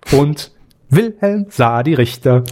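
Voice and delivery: slow, deliberate dictation of each name; over enunciating. Shown as a demonstration. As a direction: say every syllable slowly and clearly. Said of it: "Nochmal zum Mitschreiben".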